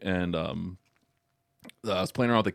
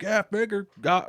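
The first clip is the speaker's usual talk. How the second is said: dad voice; 13 semitones higher, 4 dB louder than usual. Retold or imitated. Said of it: "he's like".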